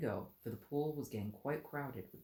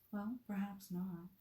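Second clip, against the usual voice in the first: softer, slow soothing retake; 8 semitones higher, 4 dB quieter, slower than usual. Acted. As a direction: hush it gently to calm him. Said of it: "said Alice in a soothing tone".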